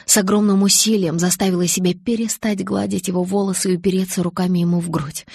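ordinary delivery, nothing marked

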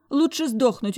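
high, loud cry on Лучше; desperate, Лучше stressed high; panicked cry. Acted. Heroine shouts she'd rather die.

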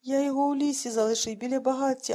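put-on worried old man telling the story; distraught old man. A narrator's reading.

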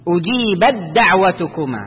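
"أجيبت دعوتكما" with ت fully absorbed into a doubled د; ت merged into د. Shown as a demonstration. Teacher models the recitation rule, ت assimilated into د. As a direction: say أجيبت دعوتكما as one held د, no whispered ت. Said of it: "ما تهمس بالتاء".

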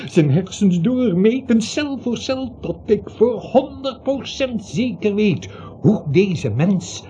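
opgewonden. Acted. Dokter raakt opgewonden bezeten.

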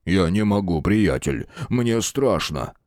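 drawn-out, whimpering "мне страшно"; a big man whining in fear to his friend; whiny fear. Acted. (ноет от страха)

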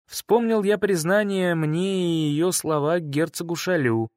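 ordinary delivery, nothing marked

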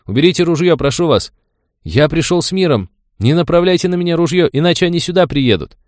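high, loud pleading shout; panicked shout. Acted. Frightened Terry shouts at gunman, pleading. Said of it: "и закричал".

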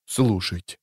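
a hushed call to listen; soft ominous murmur. Acted. Warning of approaching death.

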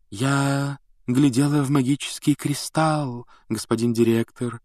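eerie ethereal prophetess voice; otherworldly mystic voice. Acted. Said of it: "мистическим потусторонним голосом".

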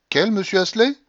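put-on loud, high, imperious old lady; old grandmother shouting. A narrator's reading. Grandmother shouting at the stunned tutor, imperious and loud. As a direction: bark at him like a domineering grandmother.

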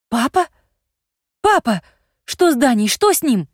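high, loud panicked cry; frightened cry. A narrator's reading. Girl sees her father in the pit, scared cry. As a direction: shriek it out in fear. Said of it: "тут же вскрикнула".

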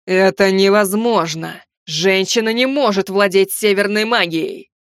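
slow, cold, furious king; cold fury. Acted. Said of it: "он с холодной яростью произнёс".

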